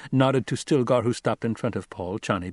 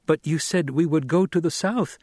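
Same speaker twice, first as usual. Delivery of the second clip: higher-pitched objection; raised, insistent woman's protest; 7 semitones higher, 3 dB louder than usual. A narrator's reading. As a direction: protest the change of plan. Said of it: "she protested".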